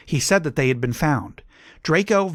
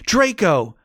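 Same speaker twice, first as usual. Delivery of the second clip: Draco! thrown out higher and louder, peaking; screamed name, louder; 6 semitones higher, 3 dB louder than usual. A narrator's reading. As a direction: push Draco! to the top of the voice. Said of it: "I screamed".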